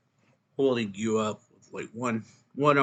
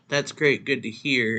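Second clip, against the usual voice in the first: pleased excitement; 3 semitones higher, 7 dB louder than usual. Acted. Friend hearing the memories are back, pleased excitement. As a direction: react to good news with a lifted voice. Friend hears the good news.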